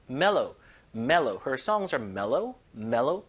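very slow, stretched mellow; slow drill. Shown as a demonstration. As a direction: draw each mellow out slowly. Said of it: "slow drill". (아주 천천히 늘여 읽기)

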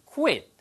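"quit" as "kwit", clear W after K; rounded start on "quit"; W glide pronunciation. Shown as a demonstration. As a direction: lips out then in on "quit". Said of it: "이렇게 말씀하시면 돼요".

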